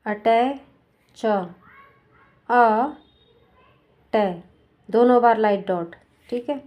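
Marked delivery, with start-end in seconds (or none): 0.1-1.2 अटैच stretched very slowly; teacher sounding out the word for students. Shown as a demonstration. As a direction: draw out अटैच so each sound is heard. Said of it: "same अटैच word भी ऐसे ही है".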